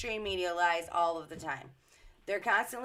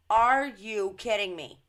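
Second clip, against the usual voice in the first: louder, disbelieving cry; loud first take of are you kidding me; incredulous outburst; 6 dB louder than usual. Real, not acted. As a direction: react as if you can't believe what you just read. Reacting to Cuba news.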